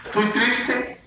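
quietly feigned sadness; acted sadness. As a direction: play sad in a small high voice. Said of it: "estamos tristes".

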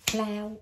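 Flower split into its beats while clapping; teacher clapping Flower's syllables; syllables clapped. Shown as a demonstration. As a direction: tap out each syllable of Flower. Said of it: "Vỗ tay".

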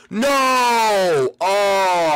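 sudden high yelp of dismay; frustrated shout. Real, not acted. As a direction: shout out in disbelief. Gamer finds chest empty.

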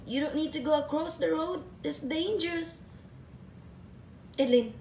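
firm but loving telling-off; tender scolding. Real, not acted. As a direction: scold the dog gently but firmly. Mother scolding pet for running off.

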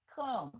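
"Come" falling into a hummed M; nasal M ending. Shown as a demonstration. Teacher showing the M sound, nasal-ending "Come". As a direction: drop "Come" down into the nose. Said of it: "mình xuống giọng mũi".

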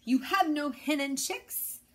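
mayor demanding an answer, gruff. A narrator's reading. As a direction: press the rooster hard. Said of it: "growled Don Pepe".

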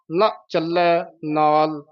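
slow, ਨਾਲ with a light clear l; careful model. Shown as a demonstration. Teacher showing how to say it, slow and separated. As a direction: say ਨਾ ਚੱਲੈ ਨਾਲ slowly, word by word. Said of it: "ਇਸ ਤਰ੍ਹਾਂ ਬੋਲਣਾ ਹੈ".

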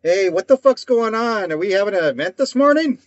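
a hint of a baffled guard asking around; puzzled security guard. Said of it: "Like, the security guard's like".

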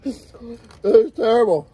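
stretched out slowly through laughter; slow laughing complaint. Real, not acted. Friend in spicy pain, slow laughing complaint. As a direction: drag it out while laughing.

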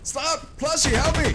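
high-pitched playful plea; hammed-up panicked cry to a toy; calling for help. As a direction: cry out for rescue. Calls plushie for help.

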